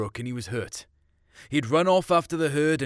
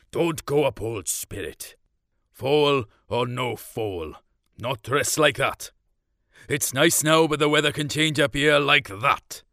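stern farmer dad; 4 dB louder than usual. Acted. Farmer dad warning the girls off the mountain, louder. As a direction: warn them off like a stubborn old farmer. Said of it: "Dad went on".

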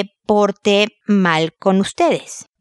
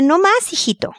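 firm scolding; 9 semitones higher than usual. Retold or imitated. Mother scolds her son.

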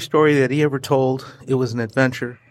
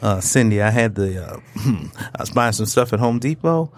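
lower, slower sexy voice; 3 semitones lower than usual. Pretend. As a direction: seductive voice for his wife. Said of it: "let me put on my sexy voice for my wife".

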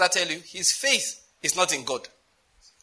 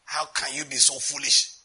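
scornful; 2 semitones lower, slower than usual. Retold or imitated. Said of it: "the alarm in his face".

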